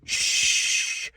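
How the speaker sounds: a quick unvoiced shush; sharp whispered shh. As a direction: hush them so China can't hear. Shushing a colleague in car.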